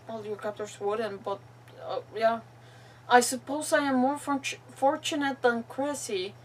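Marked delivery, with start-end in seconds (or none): 3.1-6.3 deliberate, phrase-by-phrase reading; reading a captive's diary. Acted. Captive's farewell to the troop, deliberate read-aloud voice. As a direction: read the final words with long pauses.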